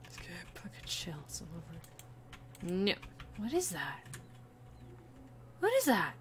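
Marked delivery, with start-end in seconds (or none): 3.4-4.0 soft puzzled mutter to self; muttered question. Real, not acted. Puzzled repeat of same question. 5.6-6.1 high startled question; surprised question. Real, not acted. Puzzled repeat of same question.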